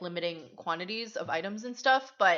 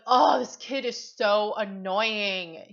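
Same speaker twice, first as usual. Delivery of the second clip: louder, drawn-out exasperated groan of words; annoyed; 2 semitones higher, 7 dB louder, slower than usual. Retold or imitated. Shopper fed up with a noisy kid, annoyed. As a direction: retell fed-up irritation, slow and loud. Retells her irritated inner reaction.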